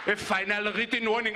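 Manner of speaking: put-on savoured Malik accent. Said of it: "That's the sexiest sentence I've ever said".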